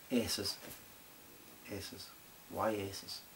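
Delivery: very soft, puzzled self-talk; muttered aside. Acted. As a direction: drop right down and mutter to yourself. Muttered aside puzzling over word.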